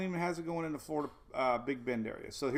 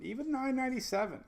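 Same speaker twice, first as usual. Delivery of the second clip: higher pitched and rising with excitement; excited; 7 semitones higher than usual. Real, not acted. Forecaster thrilled by the Euro's pressure readings, higher and excited. Model shows a very deep storm.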